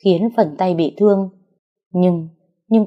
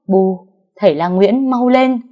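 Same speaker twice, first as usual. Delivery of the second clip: urgent call; 2 semitones higher, 4 dB louder than usual. Acted. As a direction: hurry the healer, loudly.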